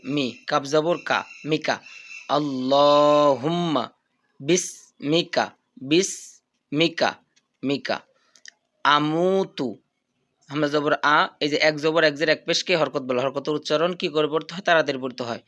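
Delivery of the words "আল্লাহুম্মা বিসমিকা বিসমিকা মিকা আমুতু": drawn-out chanted dua; slow recitation. Shown as a demonstration. Teacher reciting for students to follow, slowly. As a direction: recite slowly, syllables stretched. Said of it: "revision recitation".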